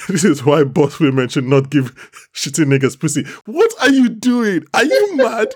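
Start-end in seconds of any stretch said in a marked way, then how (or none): 3.5-5.5 the princess scolding the guard in disbelief, high and incredulous; mock outraged princess. Acting out the princess rebuking him.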